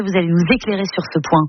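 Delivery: ordinary talk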